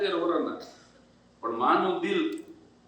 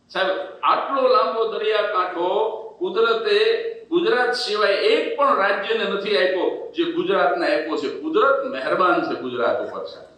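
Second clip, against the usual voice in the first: 1 proud booming boast; 5 dB louder than usual. Acted. Proud boast about Gujarat.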